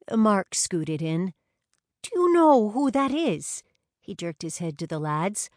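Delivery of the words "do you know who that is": higher, louder eager question; excited. A narrator's reading. Mark nudging the group about the dancers, higher and louder. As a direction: lean in, eager.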